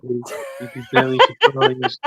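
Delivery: slow teasing. Real, not acted. Teasing back at S0.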